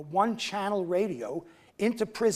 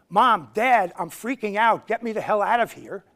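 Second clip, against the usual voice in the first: louder, mock-panicked plea; panicked letter; 6 dB louder than usual. Prisoner writing home to Mom and Dad, mock panicked and loud. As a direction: cry out for rescue in mock panic.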